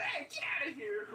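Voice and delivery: high, loud get-outta-here yell; protective shout. Retold or imitated. Younger brother yelling at bullies, high and loud. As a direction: shout them off like a big brother. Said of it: "being the loud one".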